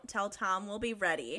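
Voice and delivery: restrained attempt at a manly declaration; manly Freddy voice. Reader voicing Freddy's resolve, mildly manly. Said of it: "in his manliest of manly voices".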